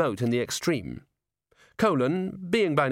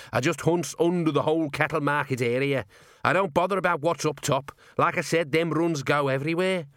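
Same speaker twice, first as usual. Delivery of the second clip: higher, gruff little gnome talking shop; gnome rat-catcher voice; 5 semitones higher than usual. A narrator's reading. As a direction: play the tiny tough gnome, unbothered. Narrator voices gnome Arthur.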